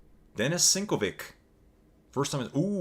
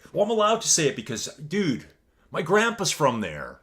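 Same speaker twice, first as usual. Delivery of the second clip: higher, fast and louder joking brag; hammed-up smug excuse; 6 semitones higher, 4 dB louder than usual. Streamer jokingly gives his own excuse, much higher and cheeky. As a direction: toss out the excuse like a cheeky wind-up. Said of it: "So I like to say that a lot".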